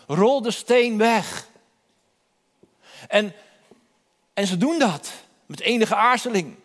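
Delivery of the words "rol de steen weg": repeated solemn command. Acted.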